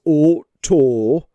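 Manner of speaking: oto said slowly with two long O sounds. Shown as a demonstration. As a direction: stretch out oto, both O's long. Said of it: "that one is a long O".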